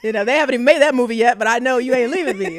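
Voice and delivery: fast, loud, eager tumble of words; bursting with eager determination; excited child resolve. Retold or imitated. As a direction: rush it out like a kid who won't be left behind. Retold childhood resolve to follow.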